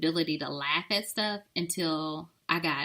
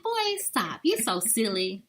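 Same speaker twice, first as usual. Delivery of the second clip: fake flirty; slower than usual. Shown as a demonstration. Coaching a friend to flirt with a partner, fake flirty. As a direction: playfully scold as if flirting. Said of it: "just me being fake and flirty".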